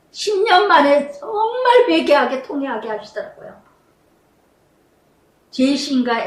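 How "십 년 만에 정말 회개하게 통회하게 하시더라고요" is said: tearful, close to crying; trembling with real emotion in the voice; voice breaking. Real, not acted. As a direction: let the voice crack with real tears.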